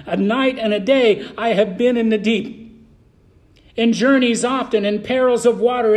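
reading the list with fervour, line by line; preached scripture reading. Acted. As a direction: preach each trial as if it happened to you. Preacher reads Paul's trials aloud.

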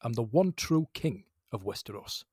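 lightly voiced film star introduction; Michael Caine. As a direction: declare it with a slight actor impression. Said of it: "my name is Michael Caine".

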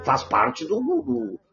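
choking on water mid-sentence; words cut off by a choke. Real, not acted. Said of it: "Enga-, engasguei".

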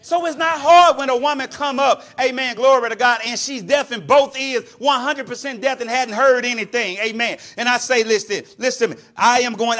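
loud, punchy sermon delivery; energetic preaching. Real, not acted. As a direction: preach it hard to the congregation.

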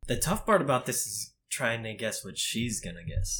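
talking through a hand over mouth; muffled, mouth covered by a hand. Real, not acted. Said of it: "I'm gonna be very muffled".

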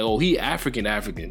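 "African" said twice, the second dropping away; emphatic doubled word. Retold or imitated. Host imitating people online, emphatic repeat of "African". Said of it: "emphasizing the word by saying it twice".

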